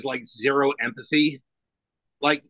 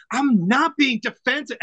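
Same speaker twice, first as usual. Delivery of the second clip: mock scream; 9 semitones higher than usual. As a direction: retell the yell, raised in pitch but not full force. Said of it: "I screamed at him".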